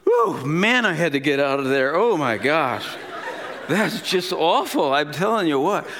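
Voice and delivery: animated imitation of a venting wife; a hint of the exasperated wife; lightly voiced relieved widow. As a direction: let it burst out as the widow, mildly hammed-up.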